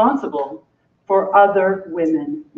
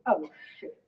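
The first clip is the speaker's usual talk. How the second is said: African American moan; 3 semitones lower, 14 dB quieter than usual. Acted. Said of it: "The African American moan".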